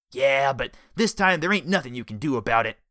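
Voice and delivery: loud gloating thug voice; gloating villain. A narrator's reading. Jellyfish gloating to Richard in the car, loud gloating voice. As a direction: gloat over him. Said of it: "Jellyfish gloated".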